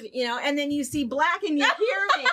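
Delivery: can't stop laughing at herself; laughing at her own filming mistake. Real, not acted. Laughing while telling a blunder.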